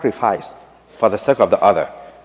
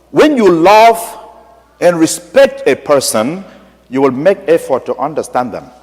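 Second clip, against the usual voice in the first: lifted, slow, heartfelt appeal; sincere heart-to-heart; earnest plea; 4 semitones higher than usual. Retold or imitated. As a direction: plead gently with the bishop. Priest's plea to bishop.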